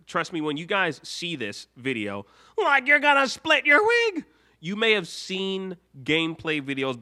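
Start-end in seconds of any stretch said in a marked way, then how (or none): 2.6-4.2 higher, louder Shaggy line. Acted. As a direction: slip into Shaggy for a moment. Shaggy voice slips in.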